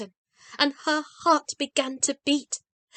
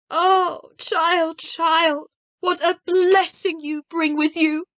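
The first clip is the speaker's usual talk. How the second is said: high, louder glad exclamation; exclaimed; 5 semitones higher, 4 dB louder, slower than usual. A narrator's reading. Grandmother feeling the rolls, exclaiming in high delight. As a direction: marvel at the gift. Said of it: "the old woman exclaimed".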